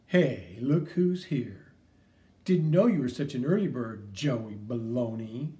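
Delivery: slow, sneering drawl, dragged out; mock the smaller kid; bully taunt. Bully greeting Joey at school, taunting.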